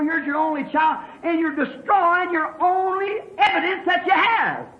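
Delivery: preaching that builds to a shout; forceful preaching. Real, not acted. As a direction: press the questions home like a preacher. Preaches Abraham's testing with force.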